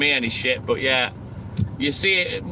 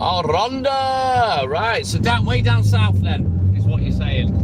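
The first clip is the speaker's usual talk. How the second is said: bad Welsh accent; 4 semitones higher, slower than usual. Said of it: "Excuse the bad accent".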